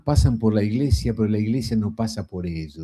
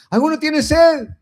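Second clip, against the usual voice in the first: crying out; 6 dB louder than usual. Retold or imitated. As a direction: lift the voice and call out to the crowd. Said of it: "Pegó un grito".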